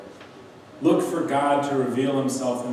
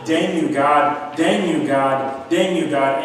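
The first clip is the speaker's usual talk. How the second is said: louder, slow mock cries at God; an aunt yelling at God, retold louder; retold screaming; 4 dB louder, slower than usual. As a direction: replay the aunt's outburst, louder and drawn out. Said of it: "screaming at the top of her lungs".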